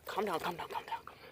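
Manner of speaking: hushed calm down to the fish; soft soothing. Real, not acted. Holding the thrashing fish, softly soothes it. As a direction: soothe it, fading to a whisper.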